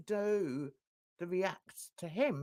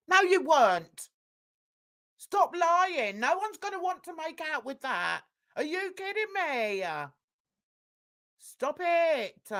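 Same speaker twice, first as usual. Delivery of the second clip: scolding; 5 semitones higher, 5 dB louder than usual. Acted. Scolding the liar, loud.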